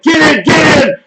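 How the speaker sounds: high, loud repeated urging; excited, high-pitched shout; retold yelling. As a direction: re-enact frantic yelling mid-game. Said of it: "I'm fucking yelling".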